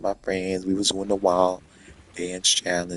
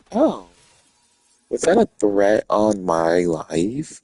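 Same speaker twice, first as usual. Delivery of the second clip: mock-shocked sass; 6 dB louder, slower than usual. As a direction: act outraged and dare him. Retold answer to a threat.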